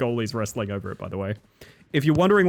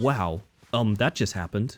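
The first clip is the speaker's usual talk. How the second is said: ordinary talk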